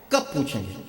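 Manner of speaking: hushed, low repeat of the question; low rhetorical question. Real, not acted. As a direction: drop the voice and ask it quietly.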